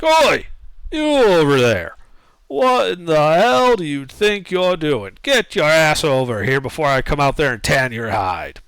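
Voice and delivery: put-on gruff old farmer yelling across a field; older halfling voice. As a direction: bellow it like a cranky old halfling. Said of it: "this older halfling voice calls".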